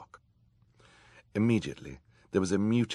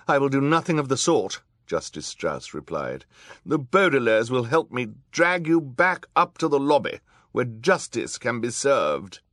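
high, loud, indignant woman judge; defiant judge; 8 semitones higher, 8 dB louder than usual. A narrator's reading. Judge refusing to help the villain Olaf, high loud defiance. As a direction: refuse firmly, voice raised and pitched high.

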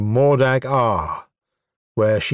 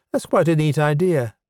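mildly grudging praise, pitched up; grudging admiration; 5 semitones higher than usual. Acted. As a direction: admit it's clever with a touch of reluctance. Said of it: "said with grudging admiration".

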